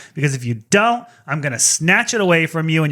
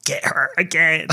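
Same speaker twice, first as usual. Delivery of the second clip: whisper. Retold or imitated. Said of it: "I'm like".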